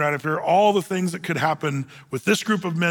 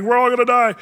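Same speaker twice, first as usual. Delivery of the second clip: louder, higher acted panic; mock freak-out; 6 semitones higher, 6 dB louder, faster than usual. Disciples in a storm-tossed boat, mock panic. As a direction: imitate frightened men in alarm. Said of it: "they're freaking out".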